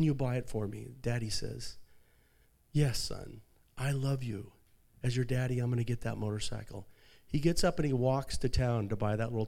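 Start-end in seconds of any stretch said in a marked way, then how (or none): 2.7-6.9 soft, loving reassurance; tender promise. Retold or imitated. Father promising his sick son, soft and loving. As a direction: hush it like a promise to a child.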